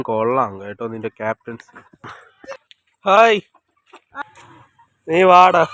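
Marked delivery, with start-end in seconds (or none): 3.1-5.7 loud call. Real, not acted. Calling a bird loudly.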